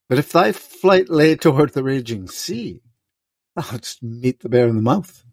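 solemn, measured Shakespearean king; classical stage actor. Acted. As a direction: declaim it like a stage Lear. S0 reads King Lear aloud.

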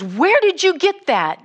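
loud, high, sharp demand; angry demand. Retold or imitated. Well-dressed villager confronting the preacher, angry shout. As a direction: bark the question at the stranger.

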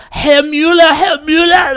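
high, loud frantic cries of a name; panicked cries. Retold or imitated. Survivor panics at seeing the Nazi neighbor, high frantic cries. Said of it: "she starts freaking out".

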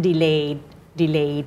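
"delay" closed with a slight, unreleased final d; light final d. Shown as a demonstration. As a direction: end "delay" on a held d, without an added "duh". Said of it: "มันจะมีแม่กดอยู่นิดนึง โดยไม่ต้องเดอะออกมา".

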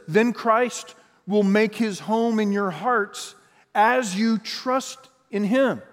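slow and deliberate; slow, weighty reading. Shown as a demonstration. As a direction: let each word land slowly. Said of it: "Listen to this".

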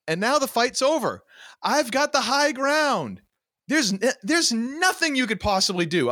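hammed-up triumphant hero, pitched high; Obi-Wan. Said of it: "like, Obi-Wan".

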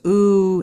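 imitated pained "ooh"; a loud, drawn-out wince of "ooh"; wincing group reaction. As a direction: act out a room wincing. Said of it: "winces and goes".

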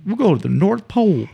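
high, put-on kid voice making things up on the spot; high mock-innocent child voice rattling off places; Sport making it up. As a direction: pitch it up like a girl inventing trips. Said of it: "this is what Sport pulled out of her ass".

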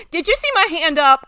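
giggling with delight at being picked; laughing. Real, not acted. Woman laughing as friends pick her to share. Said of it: "big smile on my face".

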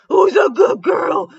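coaxing call to a dog, high and drawn out. A narrator's reading. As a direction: call out slowly like praising a dog. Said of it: "John called out".

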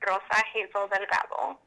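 Rosa Hazel Delgado said firmly the Spanish way; un-Americanized Rosa Hazel Delgado; Spanish pronunciation. Shown as a demonstration. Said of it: "not going to change my name".

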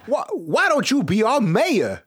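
slow, high folksy drawl; Vermont local voice. Acted. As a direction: play a small-town local, slow and high.

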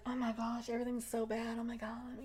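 a touch of hidden alarm; hushed panic. Retold or imitated. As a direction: whimper it quietly, as if hiding. Imitating Lucy hiding, alarmed.

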